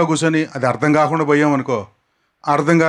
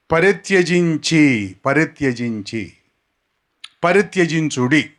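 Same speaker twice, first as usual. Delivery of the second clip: slow repetition. Shown as a demonstration. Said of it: "నాతో పాటు పలకటానికి".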